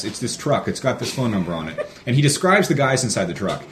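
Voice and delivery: deadpan prank caller playing a wronged husband; straight-faced Mormon man. The speaker pranking the truck owner on the phone, mock indignant deadpan. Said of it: "completely straight-faced ... he goes".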